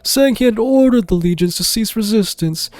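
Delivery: rising, bitter dragon lord; grand dragon, growing indignant; angry dragon voice. Acted. Dragon tells of betrayal.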